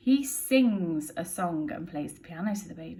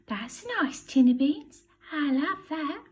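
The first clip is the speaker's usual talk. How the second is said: burglar voice; 8 semitones higher than usual. Acted. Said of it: "The voice says".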